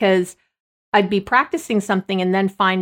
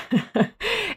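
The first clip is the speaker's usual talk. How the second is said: teary laugh; 12 semitones higher, 5 dB quieter than usual. Real, not acted. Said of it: "I'm gonna cry talking about it".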